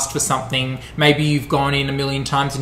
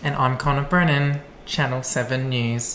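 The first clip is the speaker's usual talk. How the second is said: news anchor voice; 2 semitones lower, 4 dB quieter than usual. Pretend. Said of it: "Do I sound like the news reporter?".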